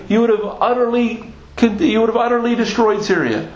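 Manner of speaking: high, indignant retelling without shouting; upset, angry prophet. Retold or imitated. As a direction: act out an upset prophet scolding a king. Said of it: "visibly upset with the king".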